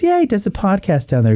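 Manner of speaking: high-pitched, chatty mom impression; exaggerated proud-mother delivery; mother's voice. Mother describes her son's podcast, affected high voice. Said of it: "And she goes".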